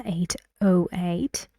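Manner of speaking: surprised repeat, voice rising at the close of "eight oh eight"; "eight oh eight" as a questioning echo. Shown as a demonstration. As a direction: lift the end of "eight oh eight" into a question. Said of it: "he is surprised".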